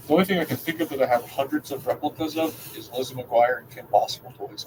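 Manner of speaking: talking through a mouthful of water; slight lisp from water in mouth; mouth full of water. Real, not acted. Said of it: "a weird lisp".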